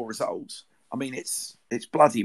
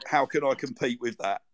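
laughing. Real, not acted. Laughing after the song.

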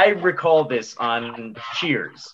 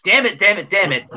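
frustrated; 5 semitones higher than usual. Retold or imitated. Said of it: "words that you can say on T V".

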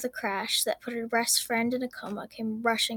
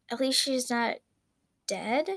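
questioning thought. Acted. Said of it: "she thought questioningly".

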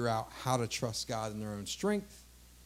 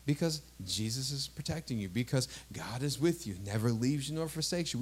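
hushed and tender, voice lowered; gentle reassurance; 2 semitones lower, 5 dB quieter than usual. Retold or imitated. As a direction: quietly reassure a scared child at bedtime. Parent reassures scared child.

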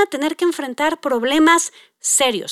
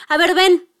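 mildly angry mom; 4 semitones higher than usual. Retold or imitated.

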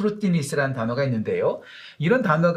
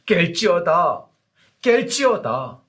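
proclaiming God's call; 3 semitones higher, 4 dB louder, much slower than usual. Acted. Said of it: "하나님께서 이사야 선지자를 통해서 말씀하십니다".

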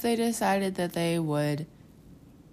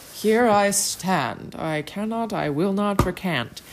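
slow, louder, solemn stand; defiant declaration; 3 semitones higher, 3 dB louder, slower than usual. Retold or imitated. Martin Luther refusing the council, slow and firm. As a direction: plant your feet and declare it slowly. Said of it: "being like".

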